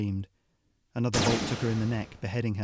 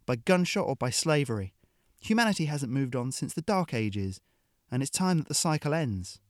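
hard-nosed mercenary woman; 3 semitones higher than usual. Acted. Hill lecturing the captive Ariadne, scornful and blunt. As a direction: lecture the prisoner with contempt.

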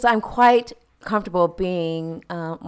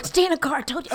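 laughing quote; 8 semitones higher, much faster than usual. Retold or imitated. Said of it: "repeats dad's line laughing".

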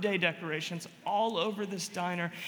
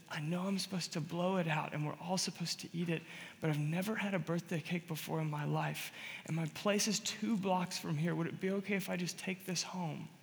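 softly voiced plea; 5 dB quieter than usual. Tearful birthday woman's humble request.

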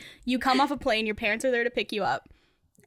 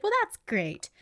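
forced polite; 10 semitones higher than usual. Retold or imitated. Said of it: "be like".

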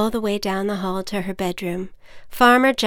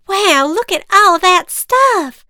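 put-on high, loud excited kid; excited holler; 11 semitones higher, 10 dB louder than usual. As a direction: holler in amazement. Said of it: "Susie hollered".

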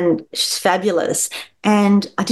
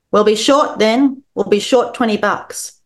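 loud and flat; 4 semitones higher than usual. Acted. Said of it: "loud and flat".

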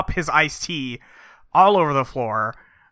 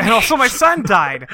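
higher, laughing mock exclamation; amused echo; 7 semitones higher, 4 dB louder than usual. Real, not acted. Co-host echoing the summary of the wife, amused. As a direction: repeat it back, cracking up.

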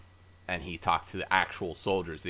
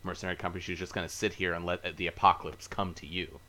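holding back a burp; stifled burp. Real, not acted. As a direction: speak while suppressing a burp. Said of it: "Was that your Tyrion impression?".

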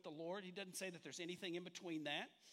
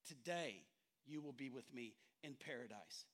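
reciting with the congregation; 7 semitones lower, 4 dB quieter than usual. Shown as a demonstration. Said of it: "everybody say it with me".

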